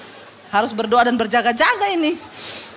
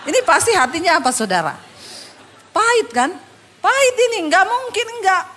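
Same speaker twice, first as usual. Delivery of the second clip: mock certainty; 6 semitones higher than usual. Mocking her own earlier judgment.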